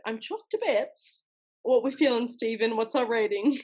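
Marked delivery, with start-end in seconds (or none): 0.1-1.2 put-on slow amateur British accent; imitation British; attempted British accent. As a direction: take your time over a put-on British accent. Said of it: "That last one is pretty good".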